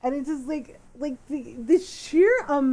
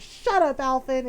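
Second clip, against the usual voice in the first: mom tone. Retold or imitated. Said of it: "she got the mom tone".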